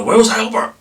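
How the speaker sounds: high, loud questioning call; mild alarm. A narrator's reading. Father asking mother where Albert is, mildly alarmed. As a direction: call out for a missing child, lightly alarmed. Father missing his submerged son.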